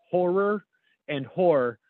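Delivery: "horror" and "whore" said nearly alike. Shown as a demonstration. Showing how Americans merge them, "horror" close to "whore". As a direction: let "horror" collapse towards "whore". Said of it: "exactly the same".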